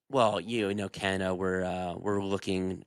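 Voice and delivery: low, rambling evasive politician; mock politician answer. Answering a budget question as a vague politician. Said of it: "the budget, what about it are you doing?".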